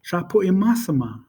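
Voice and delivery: "Sha Pui Mas Ma" as a connected phrase; fast, natural version. Shown as a demonstration. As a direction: run the syllables of "Sha Pui Mas Ma" together. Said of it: "You'd say it fast".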